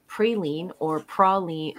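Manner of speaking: praline said "PRAY-leen", then praline said "PRAW-lee(n)"; two pronunciations. Shown as a demonstration. Weighing up regional variants, two pronunciations. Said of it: "look into the etymology of".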